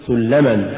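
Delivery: سلما as one unbroken word; correctly joined word. Shown as a demonstration. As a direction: keep the syllables of سلما bound together. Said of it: "قل". (نطق «سلما» كلمة واحدة)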